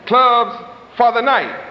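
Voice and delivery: "clubs" stressed, whole phrase slowed; slow emphasis. Shown as a demonstration. Preacher contrasting day clubs, slow emphatic. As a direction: drag out "clubs for the night". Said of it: "They have day clubs too".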